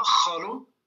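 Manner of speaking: Kholo said alone for repeating, rising at the end; model pronunciation. Shown as a demonstration. Teacher inviting everyone to repeat Kholo, model pronunciation. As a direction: model the word Kholo with a questioning lift. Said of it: "répéter après moi".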